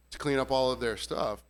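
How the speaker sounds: ordinary delivery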